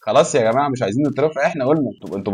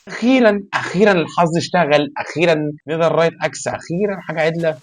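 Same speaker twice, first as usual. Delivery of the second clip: excited relief; 6 semitones higher than usual. Real, not acted. Gamer cheering at good loot, excited. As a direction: celebrate it, voice jumping up.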